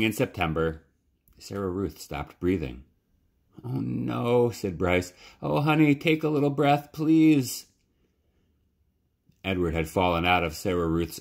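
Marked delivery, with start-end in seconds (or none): 3.6-4.5 high, stricken oh no; a sudden stricken cry; a boy's grief breaking through; dismayed. Acted. Boy finds sister stopped breathing. 5.4-7.7 high, loud anguished begging; a brother pleading over his sister; desperate pleading. Acted. Boy begging dead sister.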